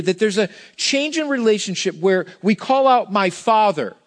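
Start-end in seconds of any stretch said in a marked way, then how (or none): 3.1-4.0 intimate "My father". Shown as a demonstration. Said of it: "not just".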